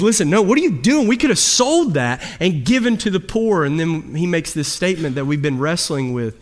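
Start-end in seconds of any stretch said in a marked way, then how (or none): 0.0-3.6 upset objection. Retold or imitated. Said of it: "Judas gets upset".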